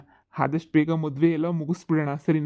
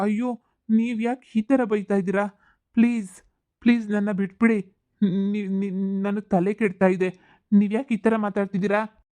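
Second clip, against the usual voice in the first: pleading; 3 semitones higher than usual. Acted. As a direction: plead with her to stop. Groom begs her to stop.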